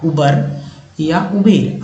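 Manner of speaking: उबर या उबेर said slowly, the two vowels set side by side; slow teacher's comparison of उबर या उबेर; slow contrast of two pronunciations. Shown as a demonstration. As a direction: spell out the choice, उबर then उबेर, deliberately. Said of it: "आपने इसे क्या कहा है".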